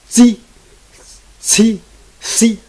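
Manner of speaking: Z and C with an added vowel, the wrong way; Z said with a vowel, as not to do it. Shown as a demonstration. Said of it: "Don't say".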